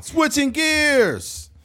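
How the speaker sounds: playful slow switch-up; drawn-out announcement. Real, not acted. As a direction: stretch it like a segment change.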